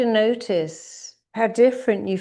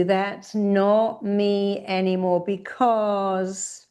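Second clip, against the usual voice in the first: slow, emphatic declaration; firm demo of a defiant statement; shouted affirmation; 2 semitones higher, much slower than usual. Shown as a demonstration. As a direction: declare it slowly, leaning on not. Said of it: "really shout it at the screen".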